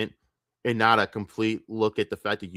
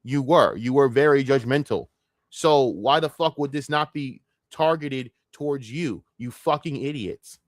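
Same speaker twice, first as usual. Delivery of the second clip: angry berating; 4 semitones higher than usual. Real, not acted. Yelling at the two streamers.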